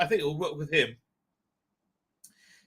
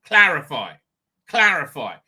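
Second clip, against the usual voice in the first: imagined editor's demand; 7 dB louder than usual. Retold or imitated. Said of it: "a clear, unbiased mind to say".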